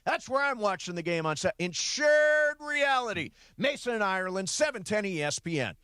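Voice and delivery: announcer hyping a ticket giveaway; promo read. Acted. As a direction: urge listeners to call in now. Call-in contest promo.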